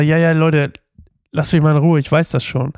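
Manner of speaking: mildly annoyed mock brush-off; dismissive. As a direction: wave them off in a casual retold quote. Voices annoyed Elisa in retelling. (leicht genervt nachgespielt, abwinkend)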